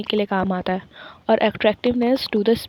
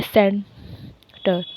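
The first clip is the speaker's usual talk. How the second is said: सेंटर said slowly with the weight on सेंट; stress on sen; much slower than usual. Shown as a demonstration. Teacher showing stress on सेंट in सेंटर, slow. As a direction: lean on सेंट in सेंटर, drawn out. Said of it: "सेंट के ऊपर ज़्यादा जोर लगा रहे हैं".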